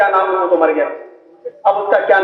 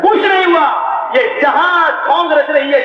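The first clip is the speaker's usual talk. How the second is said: shouting; 6 semitones higher than usual. Retold or imitated. Retold telling off the father.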